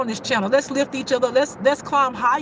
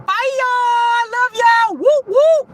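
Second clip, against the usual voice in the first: much higher, louder whooping goodbye; excited sign-off; 12 semitones higher, 7 dB louder, much slower than usual. Real, not acted. Vlogger shouting goodbye to her fans, excited. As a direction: hype shout farewell.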